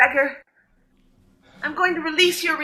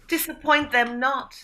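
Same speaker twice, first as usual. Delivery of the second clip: mock olde english; 5 dB quieter than usual. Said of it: "using Shakespearean speak".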